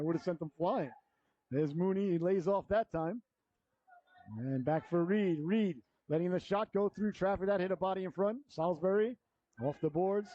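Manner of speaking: brisk live play-by-play; hockey announcer. Real, not acted. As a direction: call the game as it happens.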